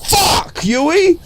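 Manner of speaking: high doting coo; high, adoring baby talk; gushing. Pretend. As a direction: swoon over how cute she is. Gushing over cute character.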